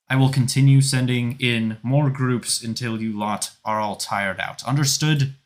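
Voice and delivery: drill-sergeant call to the crowd; loud commander. Acted. Felane orders the crowd into sparring groups, loud commanding. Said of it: "once more you hear Felaine".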